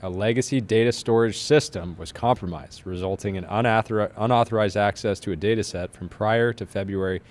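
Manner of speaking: formal, measured legal statement read; lawyer voice. Acted. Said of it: "lawyer voice".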